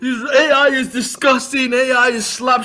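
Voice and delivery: high, loud, whiny mock voice with a laugh; mocking whiny critic. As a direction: sneer it like a crybaby critic. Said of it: "idiots like Justin Bateman with".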